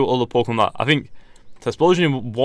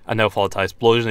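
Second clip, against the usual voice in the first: hoarse, strained voice; losing voice; 3 dB louder than usual. Real, not acted. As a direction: talk through a tired, hoarse throat. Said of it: "you can tell I'm kinda losing my voice right now".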